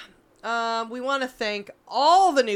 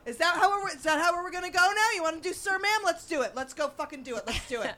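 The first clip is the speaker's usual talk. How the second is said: higher, taunting dare; mock challenge; 9 semitones higher, faster than usual. Retelling taunting the neighbor, mock bravado. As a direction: egg her on with mock bravado. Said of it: "I go".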